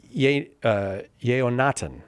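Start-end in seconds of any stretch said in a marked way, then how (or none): 1.2-2.0 Yeonatan said with no h sound; mispronounced name. Real, not acted. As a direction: say Yeonatan as YAY-oh-NAH-tan, skipping the h. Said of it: "I hope that I pronounced that right".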